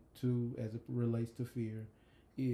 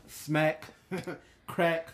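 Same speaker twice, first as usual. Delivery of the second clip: onomatopoeia demo; 4 semitones higher than usual. Shown as a demonstration. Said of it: "What is onomatopoeia?".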